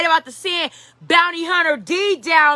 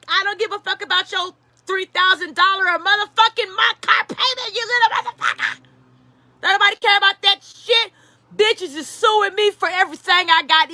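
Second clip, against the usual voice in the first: mock furious rant, higher and breaking into a shout; hammed-up angry dad yelling over a car payment; a rapper scolding; 4 semitones higher than usual. A rapper chews out his son about the Bentley, mock shouting.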